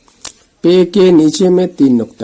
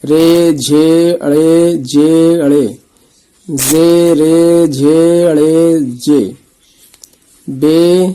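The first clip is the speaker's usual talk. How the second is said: slow letter drill; much slower than usual. Shown as a demonstration. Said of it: "رے حرف پہچاننی ہے".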